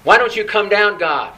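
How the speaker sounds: loud, accusing mock brat complaint; spoiled brat. Preacher acts out the people blaming God, like a spoiled brat. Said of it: "It's like a spoiled brat".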